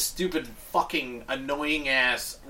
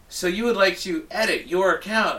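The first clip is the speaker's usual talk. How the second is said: mock robot voice; 4 semitones higher than usual. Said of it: "it's like".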